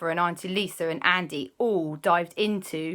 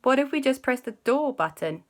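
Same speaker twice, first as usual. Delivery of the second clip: put-on much higher and louder eager child cry; excited kids; 7 semitones higher, 6 dB louder than usual. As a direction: burst in with a bright idea. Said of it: "Alexander and Christoph went".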